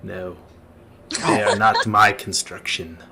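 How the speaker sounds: restrained, slightly low figure's voice; solemn undead master. Acted. Undead master explains who built the place, grave. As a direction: answer gravely, in measured phrases.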